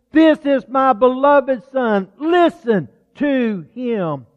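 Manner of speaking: slow, weighty, deliberate pronouncement; voice of God. Acted. Preacher voicing God the Father, slow and solemn. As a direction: let each word land like thunder from a cloud. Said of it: "A voice came from the cloud".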